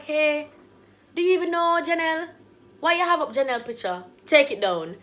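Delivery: loud, quick retold challenge; furious demand. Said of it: "I'm furious at this point".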